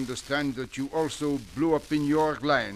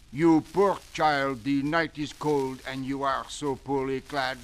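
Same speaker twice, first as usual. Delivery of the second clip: melodramatic actor; slower than usual. Acted. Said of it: "I speak".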